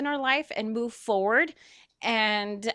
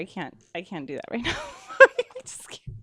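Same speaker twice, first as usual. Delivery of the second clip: breaking down crying; 2 semitones higher, 4 dB louder than usual. Real, not acted. Host to her friend in the audience, crying. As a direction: choke out the words, fighting tears. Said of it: "I said I wasn't gonna cry".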